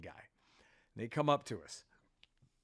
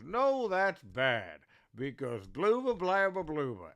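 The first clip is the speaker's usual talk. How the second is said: puppet voice. Retold or imitated. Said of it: "the puppet goes".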